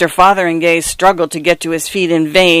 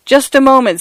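anxious plea; 8 semitones higher than usual. A narrator's reading. Mister Fotheringay pleading with the lightning, anxious. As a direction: hold the storm back in panic.

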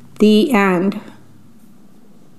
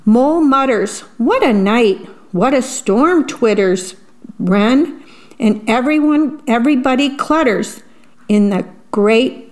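put-on reading to children. A narrator's reading. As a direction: savour each rhyme for little listeners. Reads picture book aloud.

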